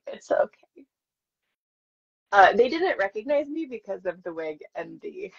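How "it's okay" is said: a higher, forced cheerful it's okay; bright okay. Retold or imitated. Consoling herself after being cut out, forced cheer. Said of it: "I'm like".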